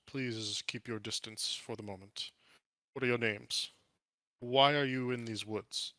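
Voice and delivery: lightly regal, measured questioning; wary, eloquent orc ranger. Acted. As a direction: keep strangers at a distance, politely formal.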